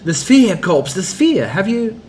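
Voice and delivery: put-on high, loud, begging old man; desperate pleading. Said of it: "Farad's voice is desperate, pleading".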